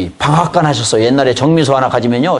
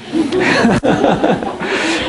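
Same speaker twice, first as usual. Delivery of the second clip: a bright, sudden laugh up high; high burst of laughter; 12 semitones higher than usual. Real, not acted. Pastor laughing at his own confession to the congregation, bursting out high. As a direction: laugh at himself, caught out.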